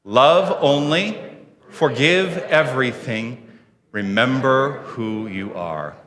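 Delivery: slow, spaced-out mission statement; deliberate words with pauses for joining in; group recitation. Real, not acted. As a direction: lead the room phrase by phrase. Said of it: "share the words of our mission statement".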